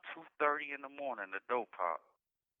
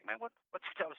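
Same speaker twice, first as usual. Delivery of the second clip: stunned disbelief; 8 semitones higher, 5 dB quieter than usual. Retold or imitated. Hearing of girlfriend's death.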